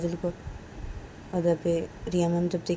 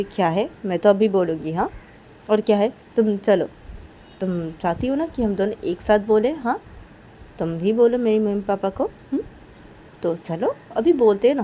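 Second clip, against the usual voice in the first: loud, higher eager push; urging Kajal; 3 semitones higher, 8 dB louder than usual. Acted. Kajal urging Reshma to tell parents, loud. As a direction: urge her to come along now.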